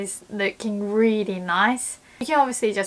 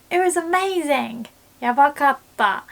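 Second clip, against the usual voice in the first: higher, thrilled "yabakatta" with a falling end; excited praise; 5 semitones higher, 4 dB louder than usual. Shown as a demonstration. Praising a movie, higher and thrilled. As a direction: rave about it. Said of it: "in this tone".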